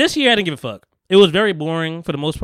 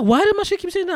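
mock incredulous; 14 semitones higher than usual. Retold frustration at denial.

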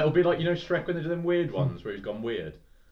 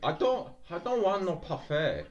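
Donkey impression; 4 semitones higher, 3 dB quieter than usual. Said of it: "What does Donkey say in Shrek?".

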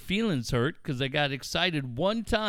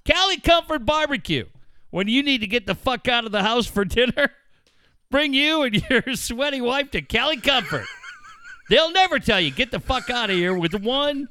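mock ad read; 4 semitones higher than usual. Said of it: "That's brought to you by".

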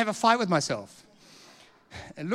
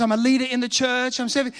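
higher, eager report; excited news; 5 semitones higher than usual. Retold or imitated. Convert updating the preacher on his life, mildly excited. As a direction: imitate someone eagerly sharing news. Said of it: "And he's so excited".

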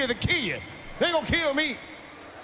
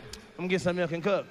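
mock toddler; 5 semitones lower, 3 dB quieter than usual. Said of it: "She looked at me".

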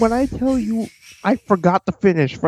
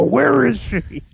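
slow, higher mock superhero growl; Christian Bale Batman; 4 semitones higher, much slower than usual. Co-host mocking the wrestlers' voices, imitating Batman. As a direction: drag out each word like a brooding hero. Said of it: "talk like Christian Bale Batman".

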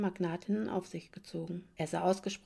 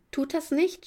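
shouting; 8 semitones higher, 4 dB louder than usual. A narrator's reading. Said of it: "schrie Emma".

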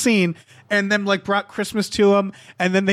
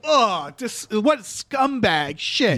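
drawn-out disdain, acted lightly; slow, mock-revolted sneer; mock disgust; much slower than usual. Aliens sneering at an actor, in mock disgust. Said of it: "they find acting to be disgusting".

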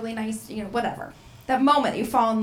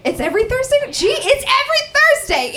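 surprised; 13 semitones higher, 4 dB louder than usual. Real, not acted. Corrected by audience member.

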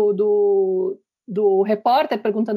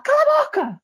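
very high sharp outburst; father snapping shut up. Retold or imitated. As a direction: cut her off hard. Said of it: "Aí o pai fala". (pai explodindo: Cala a boca!)

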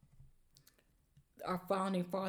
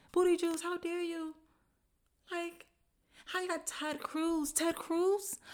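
incredulous rising rant, much higher and louder; outraged rant; 8 semitones higher, 4 dB louder than usual. Real, not acted. Podcaster ranting at the candidate, incredulous and loud. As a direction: sputter in disbelief, building to a peak.

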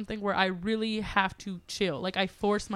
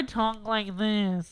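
dropping voice deep; much slower than usual. Shown as a demonstration. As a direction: voice pushed deeper. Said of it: "your voice got deeper".

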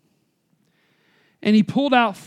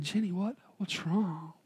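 much softer, hushed worried father; tender concern; 3 semitones lower, 16 dB quieter than usual. Acted. Father sees his crying daughter, hushed and tender. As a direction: ask gently, almost under your breath. Tears running down her face.

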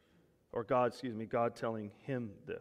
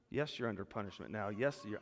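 softer, lower and tender; gentle God voice; 4 semitones lower, 4 dB quieter than usual. Acted. God speaking tenderly to us today, soft. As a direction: reassure them softly.

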